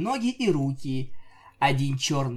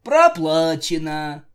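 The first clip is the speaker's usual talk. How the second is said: announcer; 8 dB louder, slower than usual. Acted. Mock game-over announcement in story.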